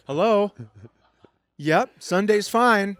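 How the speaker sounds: mock lover taking a call mid-act; answering a phone. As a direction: sound casual on a pretend call. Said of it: "taking phone calls while you're making love".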